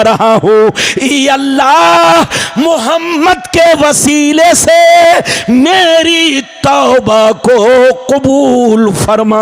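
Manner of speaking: chanted plea that climbs and stretches out; impassioned preaching. Acted. Preacher voices Adam begging Allah for forgiveness, impassioned chanting plea. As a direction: preach it as a rising, drawn-out supplication.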